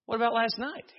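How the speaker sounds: high-pitched imitation of an indignant wife; mock disbelief, voice shot way up; incredulous wife. Wife challenging husband in counseling, incredulous. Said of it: "she looked at him and said".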